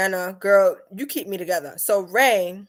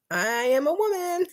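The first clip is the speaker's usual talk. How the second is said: emphatic correction; 8 semitones higher than usual. Retold or imitated. Correcting a caller expecting a man, high emphatic reply. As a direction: stretch it out high to correct him.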